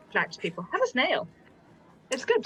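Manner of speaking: put-on French accent. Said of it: "sorry for my French accent".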